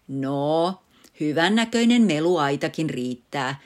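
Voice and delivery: teasing with a grin in the voice; grinning. Acted. Father teasing mother back, grinning. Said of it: "isä virnuili".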